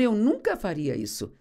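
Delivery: Peter's first denial, only mildly acted; firm protest. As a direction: protest with understated confidence. Pedro protesta e repete a frase. (protesto confiante, contido)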